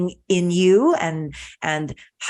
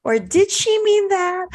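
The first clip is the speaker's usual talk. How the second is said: unsure inner question; 13 semitones higher than usual. Retold or imitated. Anxious self-questioning about insult.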